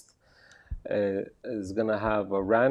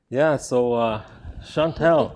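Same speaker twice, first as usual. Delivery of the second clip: excited; 6 semitones higher, 10 dB louder than usual. Acted. Host loud, high greeting guest.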